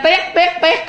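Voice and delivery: high-pitched imitated phone alert; imitated message beeps. Lover waiting all day for a text, imitated alert beeps. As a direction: chirp out repeated message tones.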